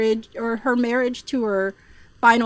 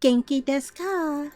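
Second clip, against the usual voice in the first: lightly raised, soft Japanese politeness; gentle put-on lilt; soft feminine inflection; 3 semitones higher than usual. Shown as a demonstration. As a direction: demonstrate a slightly higher, softer feminine voice. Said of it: "women like to have a more softer afflection".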